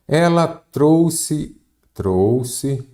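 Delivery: drawn-out, deliberate example sentence; slow dictation. Shown as a demonstration. Teacher giving the class an example, slow dictation. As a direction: dictate it very slowly, word by word.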